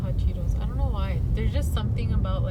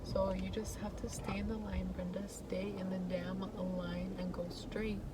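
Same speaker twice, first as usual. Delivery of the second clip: self pep talk; 10 dB quieter than usual. Real, not acted. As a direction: talk yourself through it. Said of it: "that's me giving myself a little pep talk".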